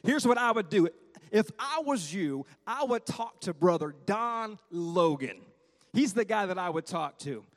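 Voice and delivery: put-on a gentle take on Brother Yon's accent, unhurried. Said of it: "that Brother Yon accent".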